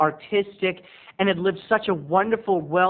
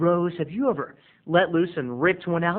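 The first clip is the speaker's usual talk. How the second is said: ordinary talk, nothing marked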